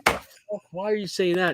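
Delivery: loud, high mock outrage; a shocked father roaring; outraged dad. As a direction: blurt it like an offended dad. Dad outraged at son's question.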